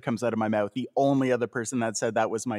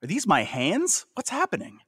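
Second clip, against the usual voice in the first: high, mock existential panic; 9 semitones higher than usual. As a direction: play up the horror, high. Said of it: "I thought".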